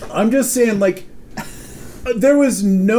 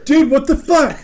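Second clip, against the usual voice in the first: higher, insistent mock demand; exasperated demand; 5 semitones higher than usual. Coworker pressing for pork answer, retold exasperation.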